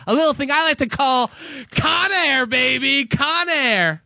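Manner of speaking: big pitch-up game-show pitch for Con Air; showman hype. Acted. Host hyping his favorite action movie to a co-host, excited showman. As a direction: sell the title like a host unveiling a prize.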